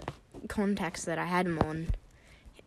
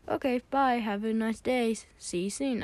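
higher, singsong goodbye; lightly put-on chirpy send-off; lightly voiced boy; 4 semitones higher than usual. Boy seeing his friend out, lightly singsong. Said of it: "he's like".

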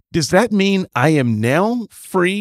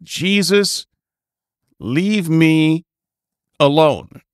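mock incantation; slower than usual. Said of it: "Is that good?".

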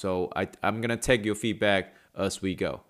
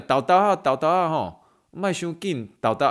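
coaxing in Taiwanese; 4 semitones higher than usual. Retold or imitated. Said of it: "有时候那种用台语讲".

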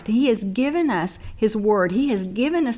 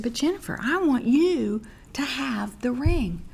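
gentle mother; 4 semitones higher than usual. Retold or imitated.

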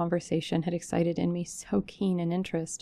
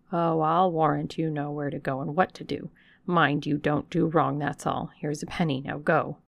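dismissive servant; 2 semitones lower than usual. Acted. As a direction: wave her away with a coin. Hannah dismissing her.

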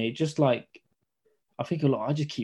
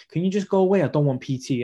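rude brush-off; 4 semitones higher, 4 dB louder than usual. Retold or imitated. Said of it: "she was like".

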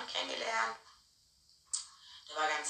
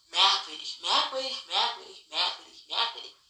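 sarcastic musing; 2 semitones lower than usual. Retold or imitated. Sarcastic musing over his lie.

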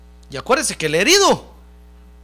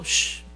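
imitated whoosh; 7 dB quieter than usual. Shown as a demonstration. Imitating the word striking home.

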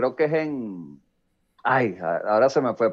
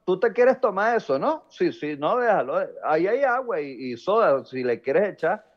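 lightly acted passive-aggressive host; sarcastic false reassurance; 4 semitones higher than usual. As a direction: pretend it's fine while making clear it isn't. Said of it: "en ese tono, tú sabes que ahí hay algo que está mal". (falsa amabilidad con un toque de sarcasmo)

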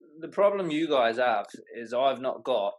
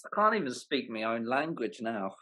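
native British, long AH in "can't"; exasperated aside in British; British accent. Real, not acted. Briton's line, echoed in accent.

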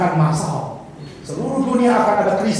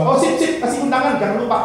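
lightly voiced, airy and carefree, higher; mock breezy reply; 5 semitones higher than usual. Preacher mocks a jilted lover answering too cheerfully, airy and unbothered. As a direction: brush off the breakup cheerfully, as a joke. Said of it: "aneh sekali kalau saudara balas".

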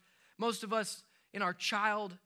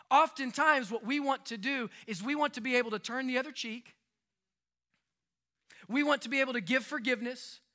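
preaching; 3 semitones higher than usual. Acted. Preaching rising in force.

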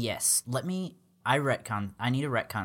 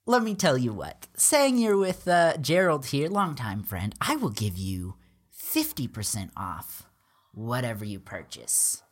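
a loud, higher travelling salesman pitch; loud merchant; 4 semitones higher, 5 dB louder than usual. Acted. Merchant Bob B pitches wares to the party, loud and eager. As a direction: hawk your wares to the travelers. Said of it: "he's like".

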